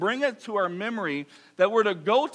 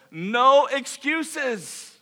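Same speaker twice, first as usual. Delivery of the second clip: "no excuses" stretched out very slowly; very slow emphasis; 5 semitones higher, much slower than usual. Shown as a demonstration. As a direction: lean on every word of "no excuses".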